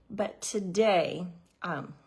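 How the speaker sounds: slightly winded, catching breath; breathless, grabbing air between words. Real, not acted. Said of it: "I'm a little out of breath".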